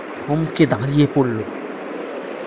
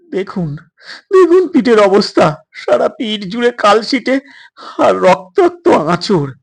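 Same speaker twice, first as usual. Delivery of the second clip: urgent pleading; 5 semitones higher, 4 dB louder than usual. Acted. Boy shows his wounds.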